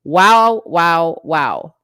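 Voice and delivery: disbelieving wows trailing off; stunned wow. Real, not acted. Reacting to allegations.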